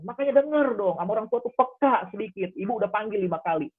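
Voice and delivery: put-on an irritated mother telling her child off; mock scolding mother. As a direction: lecture the kid for not listening. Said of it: "tapi marah dulu".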